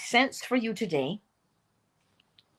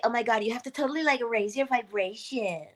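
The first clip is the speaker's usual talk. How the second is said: mocking trendy speaker; 2 semitones higher, 3 dB quieter than usual. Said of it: "hear somebody say".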